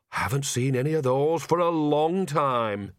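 lightly voiced cheeky old woman; a hint of a sly old granny; old witch voice. Nanny character, slower.

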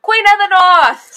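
booming slow hail to a queen; grand proclamation. Pretend. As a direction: proclaim it like a herald hailing a queen. Echoes proclamation about Lady Armstrong.

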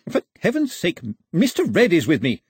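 high, loud protest; exasperated shout. A narrator's reading. Gentleman outside protesting to the doorkeeper, exasperated shout. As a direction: call out, out of patience. Locked out, losing patience.

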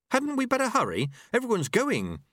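a startled novice stammering; nervous boy. A narrator's reading. Apprentice answers his master, nervous. Lobsang voiced.

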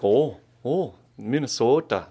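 understated Minnesota accent with rounded O's; subdued Minnesota accent. Shown as a demonstration. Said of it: "So Minnesota's more subdued. It's a little more like".

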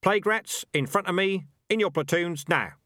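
high, loud parade-ground order. A narrator's reading. Dark Tan orders rats into platoons, shouting. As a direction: call the ranks to order. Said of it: "raised his voice".

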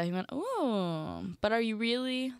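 normal talking voice

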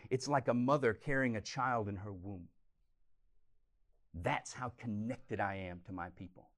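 gently, as God cradling his people; tender voice of God. Acted. Preacher voicing God's compassion.

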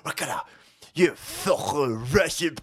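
a lightly done deep mock accent. Host mocking Ukrainian threats with a deep mock accent. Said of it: "that's the mentally ill accent".

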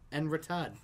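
French phrase in a Boston accent. Real, not acted. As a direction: say it with your own Boston accent. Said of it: "I love your Boston accent with it".

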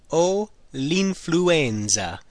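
very slow, deliberate repeat. Shown as a demonstration. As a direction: drag it out so learners can follow. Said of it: "I have the flu".

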